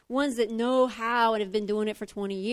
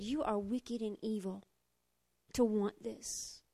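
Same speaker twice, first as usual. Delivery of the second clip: scornful big brother; 4 semitones lower, 8 dB quieter than usual. Retold or imitated. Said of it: "And his big brother said".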